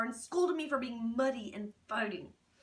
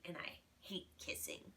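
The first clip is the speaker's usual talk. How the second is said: whispering; 4 semitones lower, 13 dB quieter than usual. A narrator's reading. Whispered disgust.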